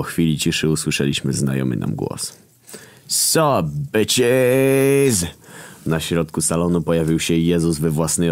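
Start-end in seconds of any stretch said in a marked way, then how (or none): 3.1-5.3 much higher casual greeting; cheery greeting. A narrator's reading. Jesus greeting everyone as he appears. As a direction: breeze in with a cool hello.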